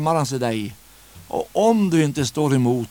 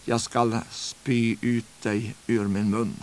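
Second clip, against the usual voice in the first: voice of the Lord; 3 semitones lower, 5 dB quieter, slower than usual. Acted. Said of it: "Herren tar en bild".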